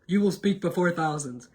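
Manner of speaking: ghostly whispered prophecy; mysterious whisper. Retold or imitated. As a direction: breathe it like a voice inside your head. Whispered inner voice.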